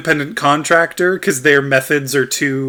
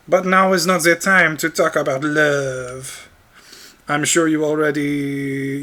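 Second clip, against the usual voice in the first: put-on French-accented Ruto; 3 semitones higher than usual. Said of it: "made Ruto French".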